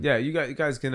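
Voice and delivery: ordinary talk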